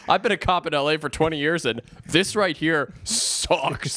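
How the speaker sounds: veteran cop laying it out, stretched on SUCKS; lightly voiced jaded cop; world-weary cop. Cop lecturing the caller on a bad scene, world-weary.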